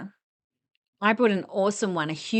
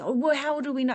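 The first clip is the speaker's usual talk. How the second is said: mock angry customer; 6 semitones higher than usual. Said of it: "they got really angry".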